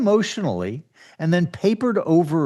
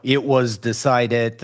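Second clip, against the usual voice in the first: PR spokesperson; 4 semitones lower, slower than usual. Retold or imitated. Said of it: "PR person who uses only the passive voice".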